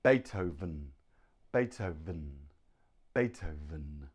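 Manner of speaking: Beethoven in careful beats with a clear buzzed V; model pronunciation. Shown as a demonstration. Teacher counts students in, Beethoven modelled carefully with a clear V. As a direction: say Beethoven evenly for learners to repeat. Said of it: "So one, two, three".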